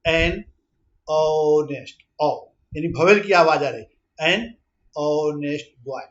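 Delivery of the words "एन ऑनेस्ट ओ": slow motion. Shown as a demonstration. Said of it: "देखिए slow motion में".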